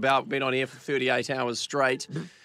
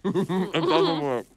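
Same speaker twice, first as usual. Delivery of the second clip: laughing; 5 semitones higher, 4 dB louder, much slower than usual. Real, not acted. Failing the whistle challenge.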